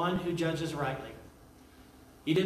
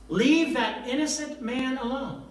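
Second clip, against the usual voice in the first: urgent warning; 7 semitones higher than usual. Acted. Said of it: "she said".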